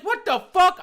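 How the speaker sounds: high, loud outraged cry; outraged disbelief. Retold or imitated. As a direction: blurt it out in disbelief. Acted shocked reaction to thrown object.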